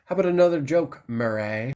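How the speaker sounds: lightly put-on character voice, lingering on the name; Joker. Fan repeating the host's odd name, mock Joker taunt. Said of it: "he calls him Murray".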